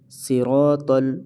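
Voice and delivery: "صراط ال" slowly with thick s, r and t; heavy letters. Shown as a demonstration. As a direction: fill the mouth on "صراط ال", si-rawt-al. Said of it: "ان کو موٹا پڑھا جائے گا". ("صراط ال" موٹا کر کے)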